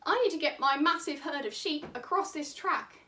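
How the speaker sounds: a hint of an Australian farmer. Farmer asking to get sheep across, light Australian accent. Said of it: "I don't know why he has this voice".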